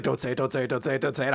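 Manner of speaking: hushed, repeated mock self-warning; self-restraining mutter. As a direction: mutter to yourself as if holding it in. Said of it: "like, shaking. He's like".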